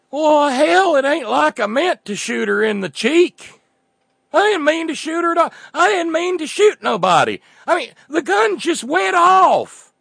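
high, loud Southern redneck voice; hick accent. Acted. Cletus explaining the shooting, in a Southern hick accent. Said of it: "wrong accent".

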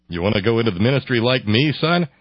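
lightly voiced minister dad; quick, hopeful fatherly question. Minister father asks his son, hopeful dad voice.

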